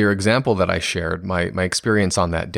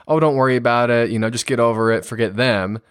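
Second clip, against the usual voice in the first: breezy, brushing it aside; a parent shrugging off a teen's upset; dismissive brush-off. Shown as a demonstration. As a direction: wave the hurt away lightly. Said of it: "instead of saying".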